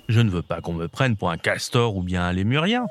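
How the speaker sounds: mild lion's grumble; grumbling lion. Acted. Lion objecting to being mistaken for another animal, mildly grumbling. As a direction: grumble it, a touch low. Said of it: "Il grogna".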